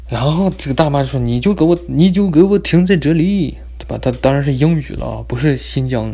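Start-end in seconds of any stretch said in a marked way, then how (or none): 1.2-3.6 stern examiner. Retold or imitated. Examiner barking orders in car.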